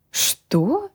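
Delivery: taken aback. A narrator's reading. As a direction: caught completely off guard. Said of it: "опешил он".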